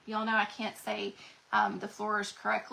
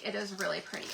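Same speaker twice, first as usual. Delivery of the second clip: "It is really pretty" repeated softer and lower; a quieter afterthought; soft echo; 3 semitones lower, 5 dB quieter, faster than usual. Real, not acted. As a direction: murmur it again to yourself.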